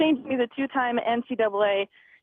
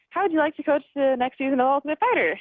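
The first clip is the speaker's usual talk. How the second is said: higher-pitched, mildly upbeat quote; retold cheerful invitation, pitched up; happy; 5 semitones higher than usual. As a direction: imitate a happy boss making an offer. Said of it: "And he's all happy".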